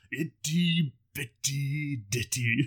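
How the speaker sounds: slow, dragged-out sergeant growl; Sergeant Slaughter voice. Acted. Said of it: "Can I do a Slaughter, Slaughter, Slaughter voice".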